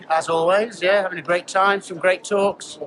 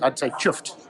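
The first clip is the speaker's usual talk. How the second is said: fake Yorkshire accent. Shown as a demonstration. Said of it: "putting on my fake Yorkshire accent".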